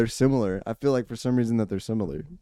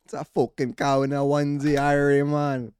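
hammed-up Jamaican patois; Jamaican patois accent; 2 semitones higher than usual. Shown as a demonstration. Joking after the failed Irish attempt, full mock Jamaican accent. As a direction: play up a mock Jamaican lilt. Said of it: "patois there for a little bit".

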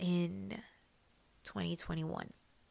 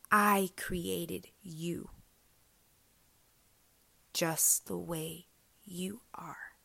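tender voice of God; much slower than usual. Retold or imitated. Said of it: "I was like".

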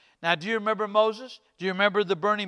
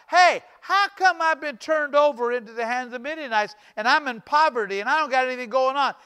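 slightly raised voice of mock protest; challenging complaint; 4 semitones higher, 4 dB louder than usual. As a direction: demand answers as a doubting Gideon. Gideon challenges the angel, retold.

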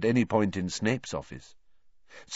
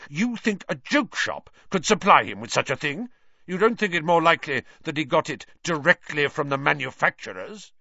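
louder, higher, sneering challenge; rigid anger; 7 semitones higher, 6 dB louder than usual. Acted. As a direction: jaw clenched, cutting sarcasm. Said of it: "His jaw had gone rigid with anger".

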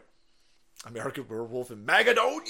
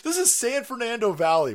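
high, loud incredulous exclamation; mock disbelief; 8 semitones higher, 5 dB louder than usual. Real, not acted. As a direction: exclaim it as if you can't believe it.

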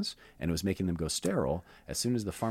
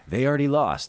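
emphatic repeat; 6 semitones higher, 8 dB louder than usual. Shown as a demonstration.

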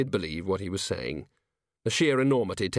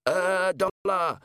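slow, strained croak in a raised voice; 8 semitones higher, much slower than usual. A narrator's reading. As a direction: choke it out while gripped by the neck. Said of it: "he croaked".

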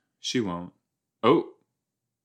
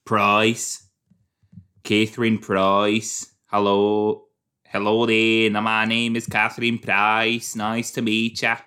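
a hint of a British lady saying hello; British accent. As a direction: introduce yourself politely in a light British accent. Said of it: "That's how she would talk".

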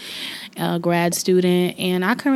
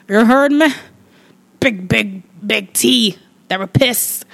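higher, louder proud call; louder hype; 4 semitones higher, 6 dB louder than usual. Real, not acted. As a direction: shout it with pride. Boasting louder.

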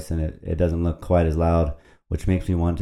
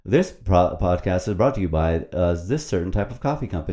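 mock ad read. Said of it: "then they're saying".

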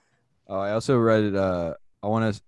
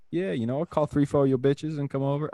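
put-on light Black American accent, raised pitch; imitated Black American accent; 5 semitones higher than usual. Comic imagining himself calling friends over, light Black American accent. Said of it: "see if you do the accent again".

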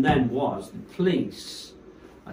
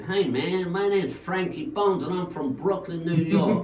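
raised, louder mock stage announcement; a DJ; 6 semitones higher, 3 dB louder than usual. DJ addresses the crowd at his first set, imitated, pitched up. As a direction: imitate a New York DJ on the mic. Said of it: "when he first came on to his first set".

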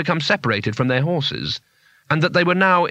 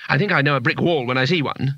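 mildly wounded reproach; reproachful. Acted. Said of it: "said Two-Flower reproachfully".

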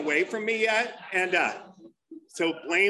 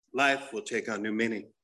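commercial voice-over; 5 semitones lower than usual. Acted. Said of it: "you hear this voice coming".

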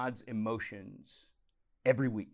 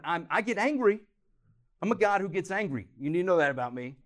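higher and louder, a firm declaration of divine anger; God declaring anger; 4 semitones higher, 5 dB louder than usual. Acted. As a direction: proclaim it like God warning his people. Preacher voicing God's anger.

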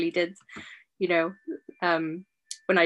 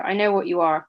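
defiant, louder, with the word know hit hard; spat defiance; 4 dB louder, faster than usual. Acted. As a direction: spit out I know what you are. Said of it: "I spat".

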